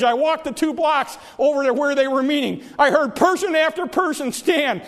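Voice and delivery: preacher building to a climax; rising fervor. Acted. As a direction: let the testimony swell with urgency.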